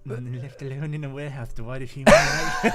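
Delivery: creepy voice. Acted. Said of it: "a creepy pedo voice or something".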